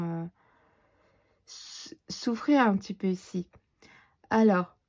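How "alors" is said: yawning through words; words stretched by a yawn. Real, not acted. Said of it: "je baille".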